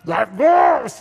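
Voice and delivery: bursting out life goals! with a half-hearted mock shout. Pastor mocking the congregation's early enthusiasm, mock shout. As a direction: cry life goals! out as a hammed-up rallying call.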